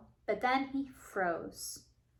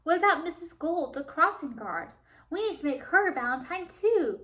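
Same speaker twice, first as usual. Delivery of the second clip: keen, raised voice; eager half-shout; 4 semitones higher than usual. Acted. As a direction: nearly shout it with excitement. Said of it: "Pete practically shouted".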